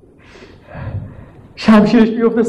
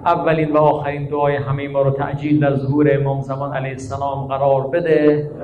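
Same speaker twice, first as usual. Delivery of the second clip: steady, softer devotional prayer read; closing prayer; 4 dB quieter than usual. Acted. Preacher leading mourners in the closing prayer. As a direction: pray evenly over the congregation.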